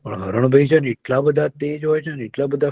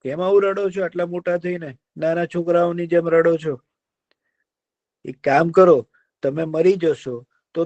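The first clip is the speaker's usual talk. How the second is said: kind deer; 5 semitones higher than usual. Acted. Deer cheers up the sad fox, coaxing. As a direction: soothe him like a gentle deer.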